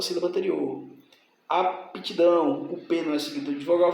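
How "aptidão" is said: slow "Aptidão", broken after the P; split into syllables. Shown as a demonstration. Teacher showing P joins the earlier syllable, slow split "Aptidão". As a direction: draw out "Aptidão" as ap, tidão. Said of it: "vem pra sílaba anterior".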